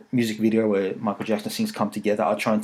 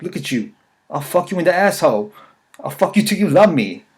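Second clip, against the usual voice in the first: raised-pitch mock threat, building; Mike Tyson going off; 5 semitones higher, 4 dB louder than usual. Boxer threatens a heckler at press conference, mock-angry rant. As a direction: start contained, then push up into a mock rant. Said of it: "he just went off on him".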